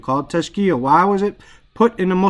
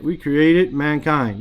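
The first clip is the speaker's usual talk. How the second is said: slowly, word by word, stress on created; patient teacher spelling out the meaning; slow explanation; slower than usual. Shown as a demonstration. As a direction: lay out "We created mankind" slowly, leaning on created. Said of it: "helps you to understand".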